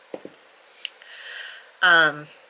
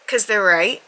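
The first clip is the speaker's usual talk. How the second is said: rueful laugh; 6 dB louder than usual. Real, not acted. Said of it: "That's the end of that sentence".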